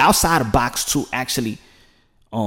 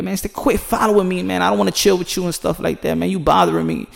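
higher, fed-up big brother brushing off a sibling; lightly voiced irritated older sibling; annoyed big brother; 6 semitones higher than usual. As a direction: shoo away a tagalong kid. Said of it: "And you be like".

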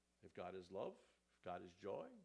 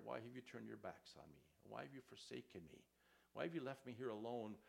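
hushed anguished plea. Retold or imitated. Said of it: "Jesus cries that out".

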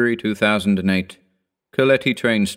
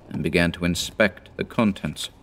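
usual speaking voice

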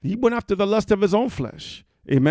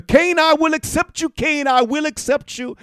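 tender higher God to Cain; God's voice; 9 semitones higher, 3 dB louder than usual. Acted. God promising to accept Cain, lightly voiced. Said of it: "Imagine God has said".

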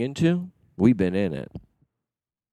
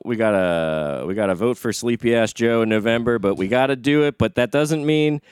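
rally speech. Pretend. Mock political sign-off speech.

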